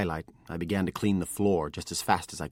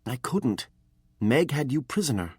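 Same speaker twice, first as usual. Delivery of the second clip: put-on higher, earnest young apprentice; pleading boy; 7 semitones higher, 3 dB louder than usual. A narrator's reading. Apprentice explains the betrayal to his master, higher and pleading. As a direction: beg to be understood.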